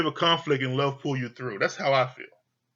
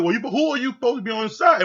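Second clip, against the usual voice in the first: agitated; 8 semitones higher, 4 dB louder, faster than usual. Retold or imitated. Lindsay demanding answers in quarrel.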